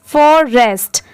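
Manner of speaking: फॉरेस्ट said as "forests", plural ending; final s sound. Shown as a demonstration. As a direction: finish फॉरेस्ट with an extra s. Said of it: "last में स की sound आएगी". (फॉरेस्ट्स, आख़िर में "स" के साथ)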